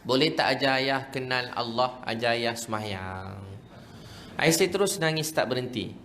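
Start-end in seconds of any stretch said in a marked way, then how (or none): 0.0-3.5 slow, understated imitation of a weeping father; retold tearful plea. Crying father asks son to teach him prayer, subdued pleading. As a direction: plead slowly, with a touch of tears. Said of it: "dia nangis".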